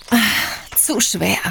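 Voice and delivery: breathy whispered grumble; whispered complaint. Acted. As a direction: grumble it under your breath. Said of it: "klönte".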